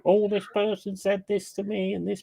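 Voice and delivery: high mocking complaint voice; imitating a complainer, pitched high; mock whining. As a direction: mimic someone rallying sympathy.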